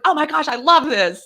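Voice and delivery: high, gleeful, laughing voice; imitated laughing delight. Onlooking employee enjoys the confrontation, imitated laughing delight. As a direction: act out a tickled onlooker. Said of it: "he was laughing".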